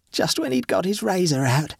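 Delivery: a lightly voiced murderess, quick and clear; swift and distinct. The dead wife confesses the murder, swift and distinct. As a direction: confess it crisply, proud of it. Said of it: "swiftly and distinctly".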